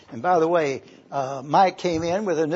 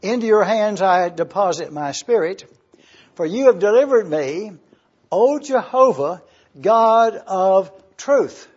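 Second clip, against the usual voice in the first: solemn read building louder; reading scripture aloud; 3 dB louder than usual. Shown as a demonstration. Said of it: "verse five says".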